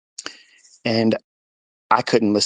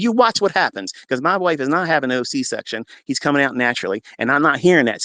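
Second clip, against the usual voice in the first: emphatic, raised retold argument; defiant insistence; 3 semitones higher than usual. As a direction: lay down the law to the nurse. Husband arguing against C-section.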